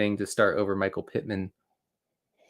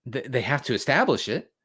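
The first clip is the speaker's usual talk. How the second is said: mocking announcers; 4 semitones higher than usual. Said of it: "And they say".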